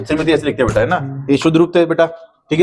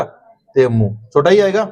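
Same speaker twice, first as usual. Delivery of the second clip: slow explaining; slower than usual. Shown as a demonstration. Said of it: "teacher explains spelling".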